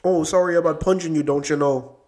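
light mock Canadian accent, apologetic; a hint of a polite Canadian. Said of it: "That was my Canadian voice".

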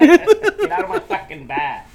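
put-on high, loud, slow tough-guy voice in a Mexican accent. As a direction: growl it out as a Mexican bar regular. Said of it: "he does it in a Mexican accent".

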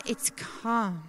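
softly dropped, settled voice; gentle calm. Shown as a demonstration. Peace once the storm has subsided, gently hushed. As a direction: let the volume fall away to stillness. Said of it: "It's a bit more gentle".

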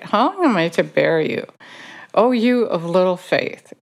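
mild exasperation in a quoted rebuke; frustrated. Retold or imitated. Jesus rebuking disciples of little faith, mildly frustrated. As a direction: lightly act out being fed up with them. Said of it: "He's frustrated".

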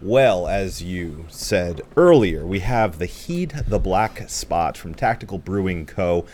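stuffy, blocked-nose voice. Real, not acted. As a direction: speak with a stuffy nose from a cold. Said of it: "I sound a little stuffy".

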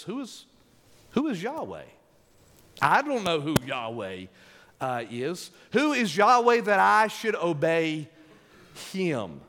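mock Pharaoh asking who Yahweh is; defiant Pharaoh. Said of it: "He says".

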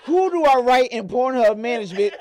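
loud, laughing mock plea; laughing outcry. Retelling his porn shock, loud laughing outcry. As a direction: shout it through laughter. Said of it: "I said".

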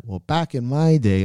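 slow, lightly voiced grumpy old-timer; drawn-out back in my day, a hint of a grumbling veteran; mock old-timer. A veteran lifter grumbling about the old days, slow mild mock old-timer voice. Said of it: "being like".

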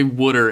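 "wooder", wood vowel in the first syllable; friend's Philly pronunciation. Retold or imitated. Quoting the friend's habit, Philly "wooder". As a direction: drop in a Philly "wooder" for water. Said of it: "They say".

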